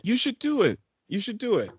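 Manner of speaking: high-pitched coaxing; egging on. Real, not acted. Repeatedly egging friend on.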